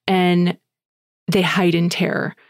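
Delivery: ordinary delivery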